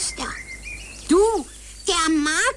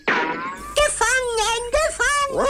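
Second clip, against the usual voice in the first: triumphant cry; 5 semitones higher, slower than usual. Acted. Pitti grabs the hidden dog.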